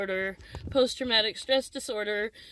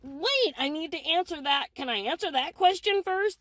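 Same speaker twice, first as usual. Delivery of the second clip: higher, pleading interruption; retold exasperated protest; 5 semitones higher than usual. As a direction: act out trying to get a word in. Retold protest at being cut off.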